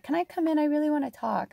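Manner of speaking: high, eager lizard voice; a spirit asking to step in. Pretend. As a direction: lizard eager to come forward. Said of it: "He's like".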